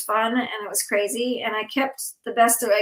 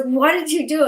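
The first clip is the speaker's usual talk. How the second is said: retold freak-out; 5 semitones higher, 4 dB louder than usual. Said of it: "and I freaked out".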